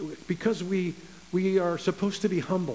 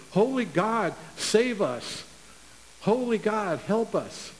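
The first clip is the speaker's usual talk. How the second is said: fervent cry; 4 semitones higher, slower than usual. Retold or imitated. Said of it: "and they say".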